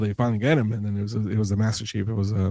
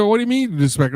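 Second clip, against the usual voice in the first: incredulous; 10 semitones higher, 4 dB louder than usual. Retold or imitated. Retold incredulous watch commander.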